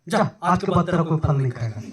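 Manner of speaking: mock-stern curse spoken up a little; mild loud curse. Shown as a demonstration. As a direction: send the tree off with a firmer, amused command. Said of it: "जोर से कैसे बोला?".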